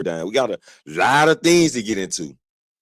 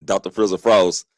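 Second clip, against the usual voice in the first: mock grand self-title, tongue in cheek; sarcastic. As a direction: crown yourself with a sly smirk. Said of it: "I'm being sarcastic".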